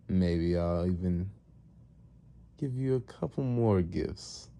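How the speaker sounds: slow, measured pronouncements with long pauses; villain master. Retold or imitated. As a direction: grant favours at a stately, teasing pace. Master grants villains favours.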